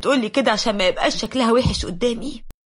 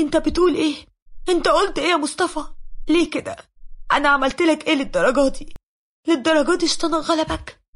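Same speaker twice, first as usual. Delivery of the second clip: higher, shocked and hurt disbelief; 5 semitones higher than usual. Retold or imitated. Wife shocked at her husband's divorce words, higher pitch. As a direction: voice the wife reeling from the news. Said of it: "لقيتها اتصدمت".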